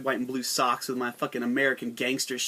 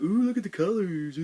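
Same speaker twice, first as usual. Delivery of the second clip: dazzled viewer; 5 semitones higher than usual. Retold or imitated. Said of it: "you're like".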